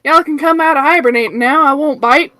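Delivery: Southern charm, inviting the others to talk; Southern accent. Acted. Lotta greets the investigators in a Southern accent. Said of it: "Southern American accent".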